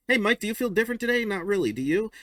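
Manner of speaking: high, fast, loud and eager; excited cartoon voice. Ralph asking Mike if he feels different, eager and high. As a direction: burst in full of wonder. First color strip dialogue.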